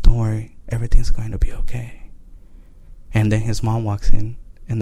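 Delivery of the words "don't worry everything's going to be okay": imitating a child's whisper, trailing into breath; whispered reassurance. Son hugging his father, whispering reassurance in his ear. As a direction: start voiced, slip into a soothing whisper. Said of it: "he whispered in my ear".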